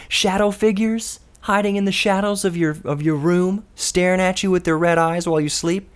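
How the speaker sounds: spooky radio teaser. Acted.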